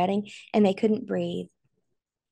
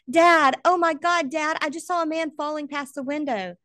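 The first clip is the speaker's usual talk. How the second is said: panicked; 8 semitones higher, 4 dB louder than usual. Acted. Son sees man fall, phones dad.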